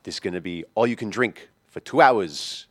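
imitated New York guy, shriek dropped; King Henry New York accent. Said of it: "started talking like a normal person".

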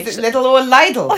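«Lidl» twice, the second mock-altered, laughing; joking with laughter. Shown as a demonstration. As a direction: tease over the word «Lidl», through laughter. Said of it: "I'm joking".

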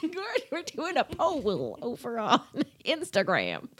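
giggling through the words; laughing. Real, not acted. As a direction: laugh while talking. Laughing after pool mixup.

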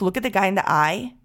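ordinary delivery

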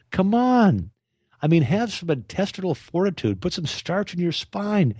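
rally the listeners like a coach; fired-up exhortation. Real, not acted.

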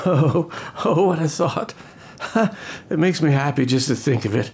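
put-on bubbling with drunk joy; tipsy giddiness; giddy delight.

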